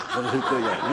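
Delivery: ordinary delivery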